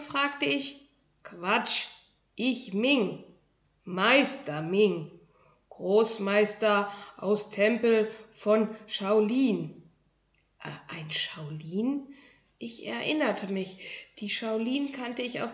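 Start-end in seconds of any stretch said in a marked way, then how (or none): 1.2-9.9 lightly voiced tiny master, slow and proud; proud little kung fu master. Tiny shoe-dwelling master introduces himself to a boy, proudly. Ming voiced in broken German. 10.6-12.1 slow, soft whisper. Acted. Boy whispers in awe at the tiny Shaolin.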